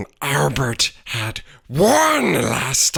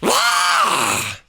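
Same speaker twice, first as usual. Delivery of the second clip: scream. A narrator's reading. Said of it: "screamed a tiny feathered thing".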